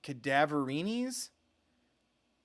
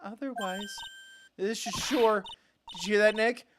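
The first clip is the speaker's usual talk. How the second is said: creepy sweet voice; 5 semitones higher than usual. Acted. Voicing creepy secretary.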